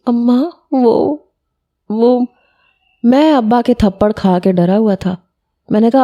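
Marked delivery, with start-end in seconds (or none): 0.1-2.2 slow, tearful halting words; tearful faltering. A narrator's reading. Daughter pleading tearfully with her mother, faltering. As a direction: falter through tears, lost for words. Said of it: "وہ پہلے ہی رونے لگ گئی تھی".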